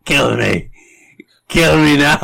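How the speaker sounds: strained, whispery plea to die; ancient tortoise begging. Acted. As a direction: play a weary old tortoise begging. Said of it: "He'd go".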